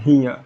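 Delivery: हियर as "hee-uh", with no R; silent final R. Shown as a demonstration. Teacher summing up how it is read, silent R. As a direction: let हियर end on "uh". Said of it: "आर भी silent होता है".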